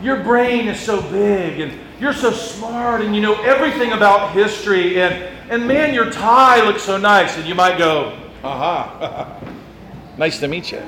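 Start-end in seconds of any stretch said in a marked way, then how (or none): 0.0-7.4 softer, syrupy mock praise; a lightly voiced fawning churchgoer; gushing flatterer. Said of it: "the people that are going to go". 8.4-10.8 soft, much quieter bashful chuckle; quiet giggle while taking a compliment; flattered laugh. Retold or imitated. Flattered person accepting praise.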